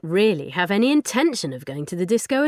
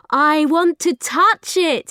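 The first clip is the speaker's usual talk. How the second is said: high, slow, loud eager cry; a child's excited plea to touch fire; 9 semitones higher, 7 dB louder, slower than usual. Acted. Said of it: "he cried".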